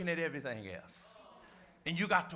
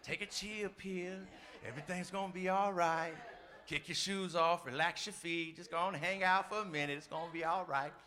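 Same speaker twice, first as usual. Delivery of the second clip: soothing spirit voice; 2 semitones lower, 6 dB quieter than usual. Pretend. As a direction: soothe them like a voice in the ear. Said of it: "that spirit be just a buzzing".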